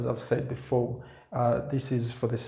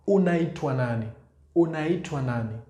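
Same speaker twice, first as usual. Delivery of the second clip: quick Swahili question; faster than usual. Shown as a demonstration. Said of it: "another way of being asked".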